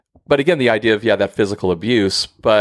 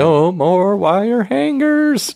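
movie line shout; 13 semitones higher, much slower than usual. Retold or imitated. Quoting a famous movie scene.

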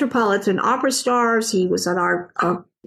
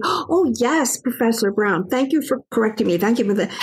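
mock-grateful. Acted polite reply to the professor.

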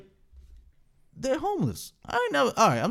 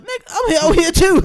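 calling father; 10 semitones higher, 7 dB louder than usual. Retold or imitated.

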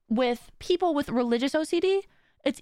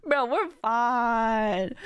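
very slow, drawn-out reassurance; slowly drawn-out bro, we're fine; slow calm self-talk; much slower than usual. Shown as a demonstration. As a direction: stretch it out to settle yourself. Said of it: "I'm like".

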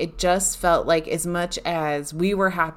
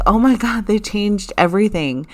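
louder, higher retold gasp of disbelief; shocked exclamation; 4 semitones higher, 5 dB louder than usual. Wife to husband, shocked at the changed menu, louder and higher. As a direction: relive the shock of seeing the new menu. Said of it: "and I'm like".

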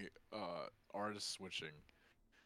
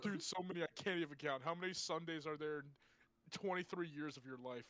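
mock drunk guy; 6 semitones higher than usual.

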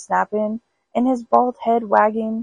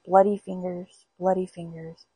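ghostly moan. Acted. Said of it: "still moaning".

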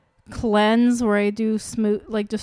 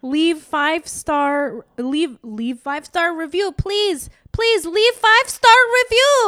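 put-on slow, building to a high, loud Korean-accented plea; hammed-up begging in a put-on Korean accent; 6 semitones higher, 7 dB louder, slower than usual. Host begging listeners for reviews, mock Korean accent. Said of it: "In a Korean accent for some reason".

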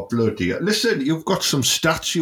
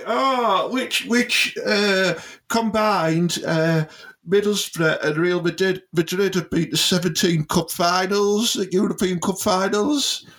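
mocking higher voice; 6 semitones higher than usual. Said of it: "that's like me saying".

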